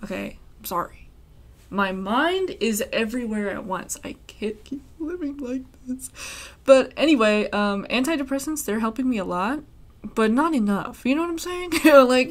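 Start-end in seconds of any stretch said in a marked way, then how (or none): 4.0-6.1 whispered mock despair. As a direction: breathe it as a dramatic aside.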